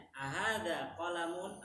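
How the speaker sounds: "ahada qalamun" slow, rising to the end; question intonation. Shown as a demonstration. Teacher giving an example question, "ahada qalamun" slow and rising. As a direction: ask "ahada qalamun" drawn out, lifted at the close. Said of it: "Misalkan tanya".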